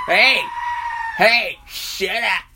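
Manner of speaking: high, loud shout to shut him up; yelling to shut up. Acted. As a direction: snap at the rowdy uncle with a high, loud yell. Yelling at rowdy uncle offstage.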